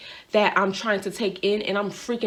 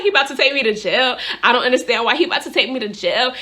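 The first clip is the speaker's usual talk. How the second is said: loud, raised, retold panic; shook, crying; 4 semitones higher, 5 dB louder, faster than usual. Driver calling her friend about jail, shook and crying. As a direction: wail it lightly, re-enacting panic. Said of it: "I'm crying 'cause, like, I'm really shook".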